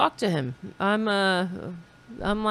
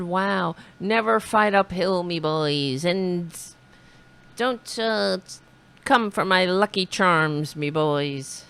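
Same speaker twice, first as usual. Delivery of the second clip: mock Irish accent. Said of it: "I didn't know he was Irish".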